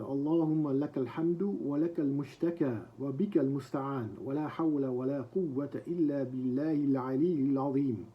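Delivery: rapid, even Arabic recitation of a prayer; quick dua recitation. Acted. Teacher reading a dua to students, fast recitation. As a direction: rattle off the dua in one breath.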